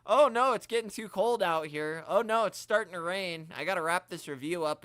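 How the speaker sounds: hammed-up complaining about the weather; mocking whine. Mocking a friend who quits reviews over bad weather, mock whine. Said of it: "'cause he'll always say".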